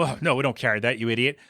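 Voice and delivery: lightly scornful brush-off; mock dismissive. Clerk mocking a customer's request, mildly dismissive. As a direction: brush a customer off as if she were stupid. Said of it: "Amy didn't laugh this off".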